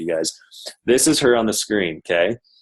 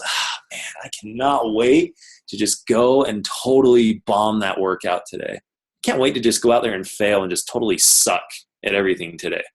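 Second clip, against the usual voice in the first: mock eagerness. Mock eager morning self-talk.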